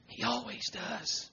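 very soft, slow near-whisper; hushed assurance. Real, not acted. Preacher assuring congregation Jesus hears, hushed. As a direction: let it drop almost to nothing. Hushed repeat before emphatic one.

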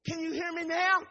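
sudden high call. Acted. Holy Ghost struggling to reach the church, calling out. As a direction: break the hush and call out.

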